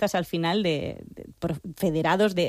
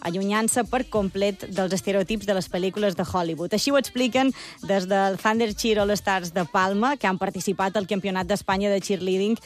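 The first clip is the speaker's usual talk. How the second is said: lively, projected presenter read over music; radio intro read; 2 semitones higher than usual. Acted. Presenter introducing a cheerleading club to radio listeners, announcer read. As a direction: introduce the segment with upbeat, measured emphasis.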